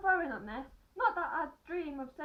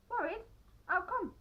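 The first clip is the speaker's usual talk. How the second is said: surprised question; 5 semitones higher, 3 dB louder than usual. Acted. Narrator character asks.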